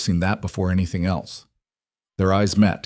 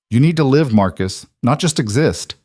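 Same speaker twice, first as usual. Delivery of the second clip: a touch louder, pushing sister; insistent sister; 5 semitones higher, 3 dB louder than usual. Acted. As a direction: urge him to live. Sister Emma's urging voiced.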